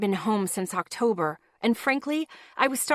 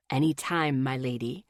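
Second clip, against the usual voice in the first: gallant voice; 7 semitones lower than usual. Acted. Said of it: "His gallant voice".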